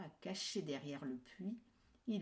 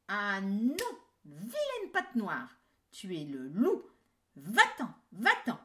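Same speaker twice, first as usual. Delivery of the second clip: put-on much louder angry kids; shouting kids; 3 semitones higher, 10 dB louder than usual. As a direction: yell them out the door. Kids chase wolf away.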